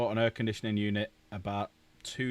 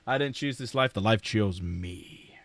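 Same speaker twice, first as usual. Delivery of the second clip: mock dramatic; slower than usual. Mock-dramatic quote about his life.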